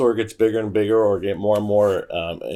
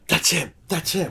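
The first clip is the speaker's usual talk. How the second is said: higher, excited spotting; excited recognition; 8 semitones higher, 3 dB quieter than usual. Retold or imitated. A rock musician spotting him at the con, excited. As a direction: point him out eagerly. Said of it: "she's like".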